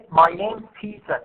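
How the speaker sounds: is shrunk into "name's", PETER stressed; unstressed is. Shown as a demonstration. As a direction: run "my name's" together, land on Peter. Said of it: "is not pronounced that much".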